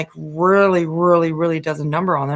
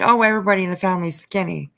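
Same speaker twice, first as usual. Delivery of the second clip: mocking her excuse; much faster than usual. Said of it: "by saying".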